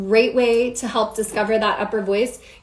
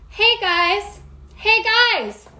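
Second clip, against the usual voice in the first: much higher, playful call across the street; hollering to a friend; 10 semitones higher, much slower than usual. Shown as a demonstration. Coach demonstrating hollering to a friend across the street, much higher. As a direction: call hey guys to a friend far off. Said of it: "pretend like you're hollering to your friend".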